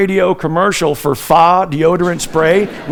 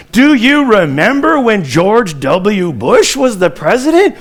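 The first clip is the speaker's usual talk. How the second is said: put-on Bush Texas accent. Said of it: "That's the southern accent from Texas".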